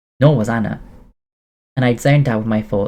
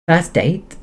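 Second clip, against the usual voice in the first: higher squeal of surprise, name rising; 7 semitones higher than usual. Acted. Anna delighted to hear it is their first date, squealing. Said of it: "she squealed".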